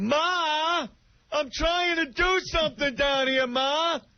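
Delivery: put-on very high, slow yell, dragging out "Ma". Retelling a film scene, a man yelling up from his basement: imitating Rupert Pupkin yelling. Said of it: "he'd be yelling".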